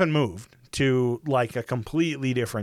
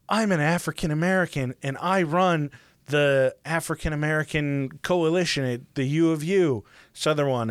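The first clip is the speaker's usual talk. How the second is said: lightly imitated ad spokesman, a touch upbeat; mock a proud testimonial on camera; commercial testimonial; 3 semitones higher than usual. Man introducing himself in a Utah diversity commercial, mock testimonial. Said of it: "there's a commercial playing".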